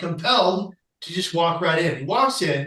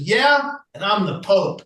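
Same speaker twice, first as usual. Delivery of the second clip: sarcastic disbelief; 3 semitones higher than usual. Retold or imitated. Friar scoffs at the patient's bridge story, sarcastic. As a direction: scoff as if he's heard it all.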